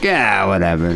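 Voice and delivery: a hint of drunken indifference, mocking; wasted Englishman. Host mimicking wasted English drinkers, mildly drunk mumble. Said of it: "they're just so wasted on wife beater that they're like".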